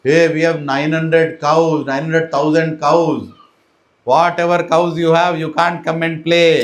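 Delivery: slow, loud declaiming; mock-grand playground squabble; acted boastful argument. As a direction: stretch out each boast and retort. Children's boastful quarrel acted out.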